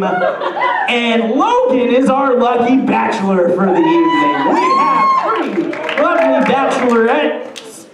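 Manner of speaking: slow, drawn-out host hype; game show host voice. Acted. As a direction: announce it like a TV host.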